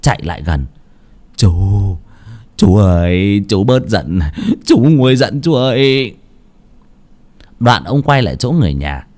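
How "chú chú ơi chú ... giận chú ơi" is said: drawn-out, slightly timid coaxing; mildly anxious appeasing; fearful pleading. Acted. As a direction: plead gently to calm an angry uncle. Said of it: "ông Bình sợ quá".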